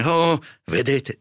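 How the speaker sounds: high, slow exasperation; an irate priest drawing out the words; angry curate. A narrator's reading. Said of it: "disse il curato in collera". (curato in collera, voce acuta)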